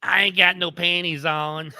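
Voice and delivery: slow sleazy come-on voice; creepy CB caller. Retold or imitated. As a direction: say it like a creep on the radio. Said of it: "the guy that always comes on there".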